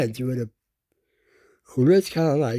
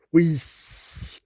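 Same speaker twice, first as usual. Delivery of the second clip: wheeze; 3 semitones higher than usual. Acted. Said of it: "he wheezed some steam".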